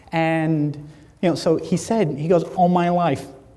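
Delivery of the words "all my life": speech of a man who can't hear himself, slightly off. Retelling what a friend's deaf father answered: imitating a deaf man's speech. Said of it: "so they sound a little bit funny".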